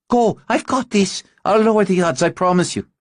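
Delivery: high, loud, determined; urgent reassurance. Acted. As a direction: push her on, firm and quick.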